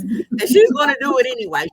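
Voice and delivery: exasperated. Real, not acted. Exasperated about defiant mom.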